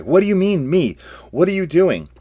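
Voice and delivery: high, loud shocked cry; alarmed shout. Acted. Geyer cries out as Krishish attacks her, high and loud.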